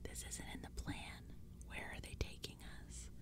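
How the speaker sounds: very soft, secretive whisper. A narrator's reading. Friend worried about leaving the plan, whispering in the narrator's ear. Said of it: "Walker whispered in my ear".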